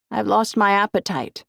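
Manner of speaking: loud. A narrator's reading. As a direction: say it so it carries through a door. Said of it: "loud enough so that Jack could hear".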